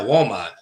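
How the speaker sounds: "Walmart" said as "Wal-mah" with no r; drops the r. Real, not acted. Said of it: "I can't pronounce my R's".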